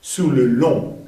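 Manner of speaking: "Sur le long" carefully, G left silent; careful French model of "Sur le long". Shown as a demonstration. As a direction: end "Sur le long" on a nasal vowel. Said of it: "no se pronuncia la G".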